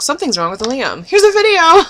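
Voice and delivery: squealed high, loud "Here's a video!"; chirpy fake-cheerful announcement; mocking the label. Fan mocking the label's cheerful distraction, squealy. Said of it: "It's like".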